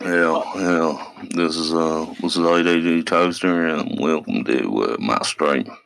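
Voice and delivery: put-on slow Texan drawl. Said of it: "'Cause it just starts getting real slow".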